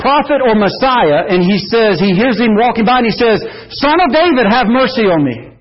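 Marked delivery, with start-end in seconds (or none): 3.8-5.5 crying out. Retold or imitated. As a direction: call out to Jesus for mercy. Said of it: "But he's crying out".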